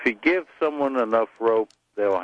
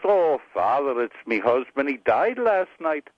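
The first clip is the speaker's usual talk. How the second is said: lightly voiced Irish widow; Irish accent; 3 semitones higher than usual. Mary to her parish priest, Irish accent. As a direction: break the news in an Irish accent. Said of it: "you wanna hear an Irish joke".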